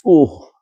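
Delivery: a rising "ooh" of unease; gut-feeling ooh. Shown as a demonstration. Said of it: "where we say".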